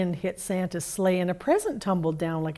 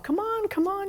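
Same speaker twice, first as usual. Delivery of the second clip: much higher, bouncy chirping; chirpy bird; 13 semitones higher than usual. A narrator's reading. Bird urging the others to hurry, chirping. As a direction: chirp it like an eager little bird. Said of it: "she chirped".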